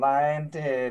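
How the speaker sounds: ordinary talk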